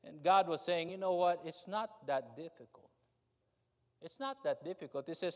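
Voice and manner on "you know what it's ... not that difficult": tender plea. Acted. Voicing God tenderly.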